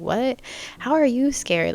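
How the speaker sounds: a startled, half-teasing challenge; surprised disbelief. Retold or imitated. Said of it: "And I'm just like".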